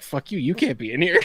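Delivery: mock-belligerent parroting; lightly acted drunken retort; defiant comeback. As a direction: throw the words right back, cocky. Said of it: "And I was like".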